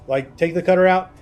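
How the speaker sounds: talking while chewing popcorn; words round a mouthful; munching popcorn. Real, not acted. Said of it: "Sorry, I'm munching on popcorn".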